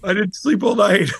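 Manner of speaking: high, slow whining complaint; mock whine. Answering his wife at dawn, high slow mock whine. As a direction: whine like a sleepless kid. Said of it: "And I was like".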